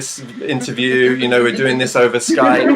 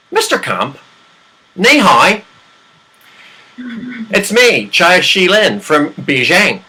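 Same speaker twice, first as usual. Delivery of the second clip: put-on Chinese accent; 3 semitones higher than usual. Comedian reads the Beijing recruiter's email in a Chinese accent. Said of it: "that Chinese accent, though, pretty good".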